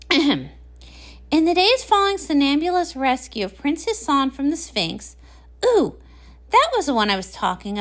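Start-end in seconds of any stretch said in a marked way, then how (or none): 0.1-5.2 measured storybook reading voice; story narration. Acted. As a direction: read the legend aloud to a friend. Reads story aloud to Pinkie.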